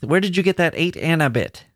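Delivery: put-on a mother catching her child out; mother pouncing. A narrator's reading. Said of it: "had pounced on the child with".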